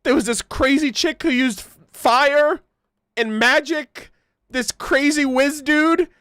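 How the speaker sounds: hint of a breathless survivor bragging to townsfolk; survivor's tale. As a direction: gush it out like a guy who barely escaped. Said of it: "told his story ... and be like".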